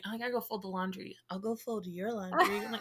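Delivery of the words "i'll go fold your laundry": imitating husband's suggestive comeback, lean on "your"; mock innuendo. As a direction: turn "your laundry" into a laughing innuendo. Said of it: "dads can turn anything into some sort of innuendo".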